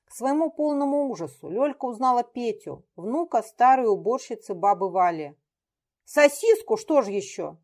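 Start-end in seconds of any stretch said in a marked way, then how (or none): 6.1-7.6 mocking. Дмитрий mocks captive.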